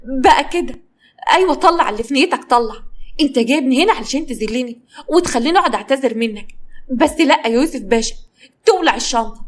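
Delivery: she raises her voice in anger. Acted. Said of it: "واتكلمت بصوت عالي".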